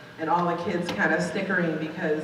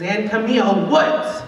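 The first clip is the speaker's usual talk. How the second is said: stern call-out; 2 semitones higher, 7 dB louder, slower than usual. Retold or imitated. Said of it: "my name is just resonating through the room".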